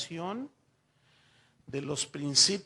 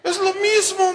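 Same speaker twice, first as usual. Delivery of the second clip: high, loud laughing line; mock kid shouting it's the same thing; laughing punchline; 15 dB louder than usual. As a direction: blurt it out through laughter. Son's punchline, retold.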